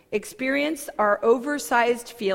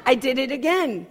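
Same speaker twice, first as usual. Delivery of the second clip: "I did it again" louder, falling in self-reproach; exasperated at self; 3 semitones higher, 3 dB louder than usual. Retold or imitated. Realizing she overshared again, louder and exasperated. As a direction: scold yourself for slipping up. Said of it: "I'm like".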